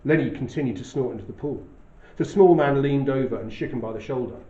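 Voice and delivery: measured, even reading of a novel opening; steady literary narration voice; story narration. A narrator's reading. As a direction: read it like a storyteller setting the scene. Reads novel narration aloud.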